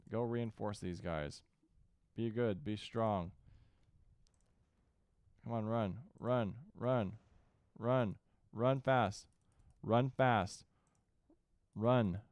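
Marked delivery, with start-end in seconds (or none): 5.4-12.2 louder, urging them to run; urgent shouting. Real, not acted. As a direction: shout at units to hurry. Urging troops to flee.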